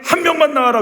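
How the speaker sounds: high, loud battlefield call; shouted challenge. Acted. Goliath challenging the army to send one man, shouted challenge. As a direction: call out a challenge to the enemy ranks. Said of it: "외치고 있는데".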